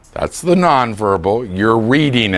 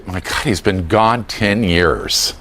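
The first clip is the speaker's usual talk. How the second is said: eye-rolling; 4 semitones lower, slower than usual. Shown as a demonstration. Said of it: "roll your eyes and say".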